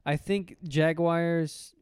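Jaguars drawn out as jag-wires, slowly. Shown as a demonstration. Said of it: "How do you guys say that?".

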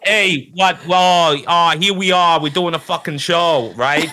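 high, pushy asshole-star voice; Hollywood Druid. Acted. Asshole star annoyed at doing a show, high pushy complaining. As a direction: grumble at the crew in a high, irritated voice. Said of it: "Hollywood Druid out".

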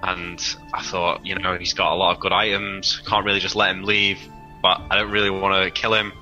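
ordinary talk

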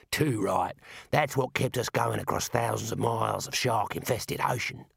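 lightly voiced, hearty dwarf; dwarf Mad. Mad praising dwarf bread to Rincewind, lightly voiced dwarf. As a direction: agree stoutly in a dwarf's voice.

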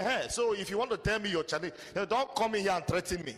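indignant retold telling-off; re-enacted scolding. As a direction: act out telling someone off, loudly. Pastor re-enacts rebuking a church member.

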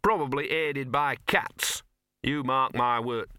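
slow, knowing dog voice; talking dog, darkly suspicious. Acted.

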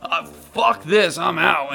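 high, loud, drawn-out bail-out; panicked goblin. Acted. Goblin turns away from the fight, panicked shout. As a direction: loudly give up and flee.

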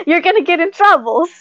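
high mock Pepe accent; Pepe impression. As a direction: squeak it like Pepe the prawn. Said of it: "He said something like".

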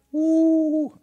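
high, loud whoop; excited woo. Real, not acted. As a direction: let out a big woo. Excited exclamation mid-sentence.

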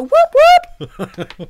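high loud cheering whoop; mock soccer cheer. Showing how fans cheer at a soccer game, mock cheer. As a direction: shout it like a fan at a goal. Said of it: "you go".

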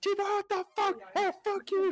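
high, strained mock yell; hammed-up angry comeback; kitchen swearing. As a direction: imitate a waiter cursing back at the cook. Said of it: "we're just swearing".

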